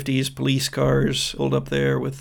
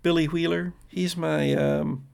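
put-on higher, halting teen girl; sheepish daughter; 4 semitones higher than usual. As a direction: stall before naming the boyfriend. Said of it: "turns to you and says".

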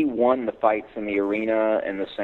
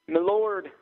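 mock shout; 11 semitones higher than usual. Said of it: "I shouted".

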